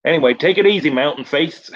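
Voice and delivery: a lightly voiced dazed stuntman; stoned Dave's farewell. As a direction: toss off a breezy, high farewell. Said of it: "he goes".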